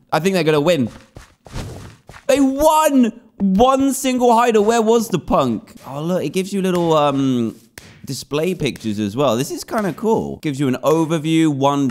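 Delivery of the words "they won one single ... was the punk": excited. Real, not acted. Game ends, reacting excitedly.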